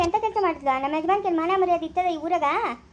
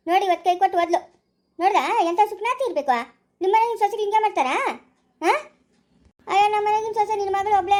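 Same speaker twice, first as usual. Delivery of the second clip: aggrieved, scandalised complaint; loud indignant lament; 4 dB louder than usual. Acted. Elder lamenting the girl who ran away before the wedding, loud outrage. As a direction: wail the grievance out loudly. Acted outrage over runaway bride-to-be.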